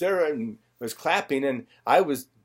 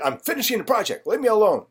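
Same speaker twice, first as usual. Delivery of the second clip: mock irritation; 6 semitones higher, 4 dB louder than usual. Friend brushes off his question.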